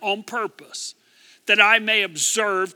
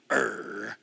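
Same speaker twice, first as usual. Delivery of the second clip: growl; 11 semitones lower, 7 dB quieter than usual. Shown as a demonstration. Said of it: "like I do sometimes".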